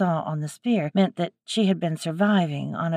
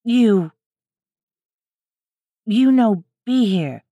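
higher and louder, halting threat; broken-English wild woman; 4 semitones higher, 6 dB louder than usual. A narrator's reading. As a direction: chop the words like a hostile stranger. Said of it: "struggling with the words".

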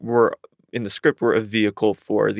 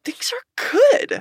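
slow, high drawled cowboy voice; much slower than usual. Retold or imitated. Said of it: "That was like a cowboy voice".

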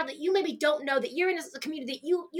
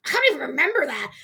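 laughing friend; 6 dB louder, faster than usual. Retold or imitated. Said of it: "And she was like".

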